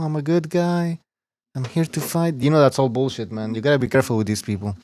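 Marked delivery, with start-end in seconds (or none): 0.0-2.4 soft, mock sincere little voice; mock nice guy voice. Mocking fighters who talk sweet, soft mock-humble voice. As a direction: imitate a fake humble fighter softly.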